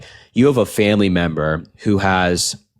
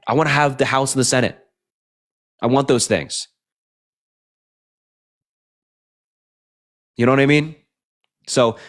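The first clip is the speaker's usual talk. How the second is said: higher, fired-up pleading to fellow Democrats; passionate rant; 4 semitones higher than usual. Real, not acted. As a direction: push it like you really want the win. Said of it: "sorry for that rant".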